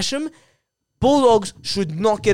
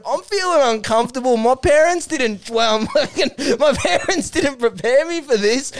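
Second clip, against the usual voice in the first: lightly voiced uneasy young player, higher pitch; a hint of a higher, mock-uncomfortable voice; Matty Rowell, uncomfortable; 4 semitones higher than usual. Young player protesting to the veterans, lightly hammed-up unease. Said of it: "then Matty Rowell's like".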